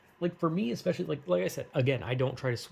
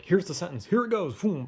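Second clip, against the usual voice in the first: raised-pitch mock brain voice; hasty brain; 6 semitones higher, 3 dB louder than usual. Brain blurting a sentence at the speaker, mock-hasty. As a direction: toss it out higher, like an impulsive brain. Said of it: "my brain will just be like".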